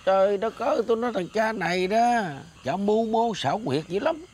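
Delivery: high-pitched exasperation; exasperated warning. Acted. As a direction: insist she is being fooled. Exasperated warning about rival's trick.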